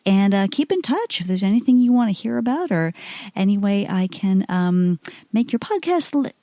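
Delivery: smooth, polished cabin announcement; like a flight attendant on the intercom. Pretend. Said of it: "That's my, that's my, uh, flight attendant voice".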